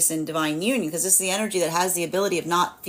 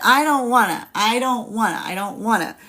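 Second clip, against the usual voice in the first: crabby whine; 3 semitones higher than usual. Acted. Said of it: "that Cancer crabbiness".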